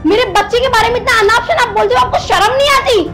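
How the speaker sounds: indignant protest, voice lifted a little. Acted. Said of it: "आवाज नीचे रख के बात कर".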